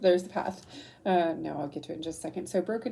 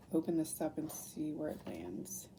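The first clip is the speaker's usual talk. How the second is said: whispering; 3 semitones lower, 7 dB quieter than usual. Real, not acted. Opening the book to a random page.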